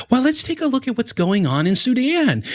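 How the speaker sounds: high, airy deflecting voice; mocking dodge. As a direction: mimic a smug change of subject. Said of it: "your only response to that is".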